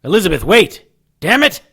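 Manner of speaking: high urgent shout; calling out. Acted. Harry yelling after Elizabeth on the stairs, high and urgent. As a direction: yell after her as she runs.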